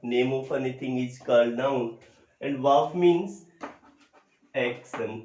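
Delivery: very slow, word by word, like dictating notes; slow dictation. Shown as a demonstration. Teacher to students, dictating slowly. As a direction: spell out the definition slowly for the class. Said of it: "teacher dictating definition slowly".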